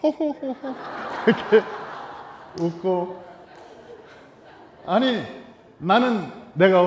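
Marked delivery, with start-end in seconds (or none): 0.0-0.6 imitated dainty ho-ho-ho giggle; demure laugh. Husband imagines his wife laughing modestly, demure mock giggle. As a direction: mimic a modest wife's restrained laugh. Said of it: "웃어도 크게 웃지 않고".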